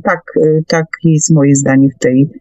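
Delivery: usual speaking voice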